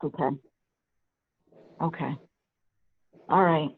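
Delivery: normal talking voice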